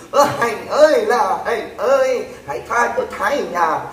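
drawn-out begging call to Hạnh; hammed-up tearful plea; mock pleading wail. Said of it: "họ cũng đã van xin khóc lóc". (giả giọng than khóc van xin)

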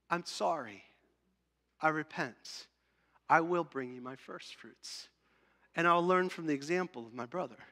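soft, subdued acted apology; mild contrite tone; humble repentance. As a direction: confess to God quietly, with pauses. Repentant worshipper voiced apologising to God.

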